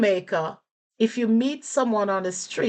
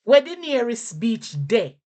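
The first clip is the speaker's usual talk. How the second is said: Jamaican patois; 4 semitones higher than usual. Shown as a demonstration. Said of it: "you can say".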